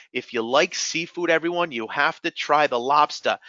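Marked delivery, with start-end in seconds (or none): 2.8-3.4 lobster with the R dropped, "lawbsta"; New England accent. Shown as a demonstration. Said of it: "Notice how I said lobster without an R".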